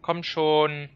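loud, impatient hurry-up calls; impatient urging. Real, not acted. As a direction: shout at the screen to hurry up. Impatiently urging the slow game.

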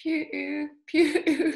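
"Pu-, pu-" high, rounded vowel held; practised Y sound. Shown as a demonstration. Learner copying the Dane's vowel, practised sound. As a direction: try "Pu-, pu-" with a high Danish Y. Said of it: "so the Y, we say".

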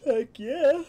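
loud, high "heck yeah"; excited cheer. Real, not acted. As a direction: cheer it out big.

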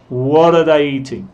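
"What are" linked as "wudda"; natural linked "What are" for learners; reduced "are". Shown as a demonstration. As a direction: shrink "are" to a schwa after "What". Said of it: "Escucha bien mi pronunciación".

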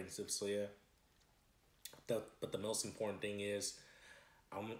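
speaking between bites of food; talking while chewing. Real, not acted. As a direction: hand near mouth while eating. Seen 0: Hand with fries repeatedly at mouth and chin while talking and eating.

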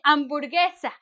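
hamburguesa said with no H sound, starting on the A; silent H. Shown as a demonstration. Teacher modelling a word for students, H left silent. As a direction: drop the H, start on the vowel. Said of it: "we say hamburguesa without the H".

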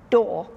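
"door" punched out, falling; a firm demonstration "door"; first door vowel. Shown as a demonstration. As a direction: say "door" as one of two near-identical vowels. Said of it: "could not hear the difference between".

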